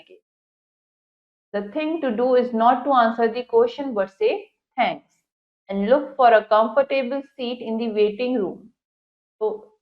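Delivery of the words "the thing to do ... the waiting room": slow, careful English reading; textbook read-aloud. Acted. Teacher reads the English passage to students, slow read-aloud. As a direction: read it out deliberately for a class.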